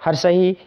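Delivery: हर्षही with a short, quick ई at the end; short vowel. Shown as a demonstration. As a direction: clip the final ई of हर्षही short. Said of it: "हर्षही में थोड़ा कम मात्रा में".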